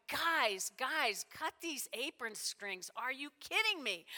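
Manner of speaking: exasperated Jesus. Acted. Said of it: "imagine Jesus going".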